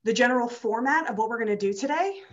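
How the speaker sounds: slightly winded, catching breath; talking while still out of breath. Real, not acted. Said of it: "I'm also a little out of breath".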